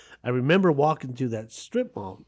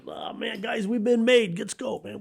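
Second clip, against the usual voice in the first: put-on panicked kid; 10 semitones higher than usual. Kid panics, caught stealing.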